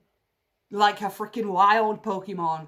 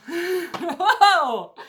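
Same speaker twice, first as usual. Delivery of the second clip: high, loud happy laugh; delighted laugh; 9 semitones higher, 7 dB louder than usual. Real, not acted. Reader laughing with joy over the cards.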